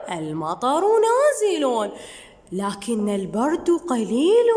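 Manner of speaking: slow, careful reading with full endings; slow reading aloud. Shown as a demonstration. Teacher rereading the boy's words to pupils, slow. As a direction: read the line slowly for the class.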